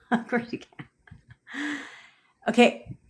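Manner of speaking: soft, slow words through a laugh. Real, not acted. Coach teasing a viewer who asked to question her, laughing. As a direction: say it quietly while laughing.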